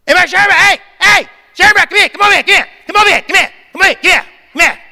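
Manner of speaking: high, loud calls across the hallway; calling out. Retold or imitated. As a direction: shout for the student to come right over. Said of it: "He called me out".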